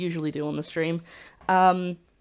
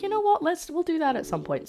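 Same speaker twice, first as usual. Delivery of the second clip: excited inner voice; 11 semitones higher than usual. Retold or imitated. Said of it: "I was like".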